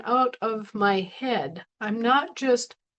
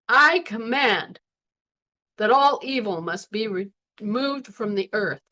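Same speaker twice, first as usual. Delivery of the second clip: commander voice. Shown as a demonstration. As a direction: give the order like an officer. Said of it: "Say it like a commander".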